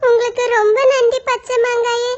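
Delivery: a small bird who finally understands; child crow, grateful; little crow. Acted. Little crow thanks the mango.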